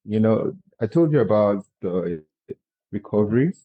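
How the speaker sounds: gentle speech, mouth barely open; limited mouth opening. Real, not acted. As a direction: still healing mouth, keep jaw nearly shut. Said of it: "because I can't open my mouth too much".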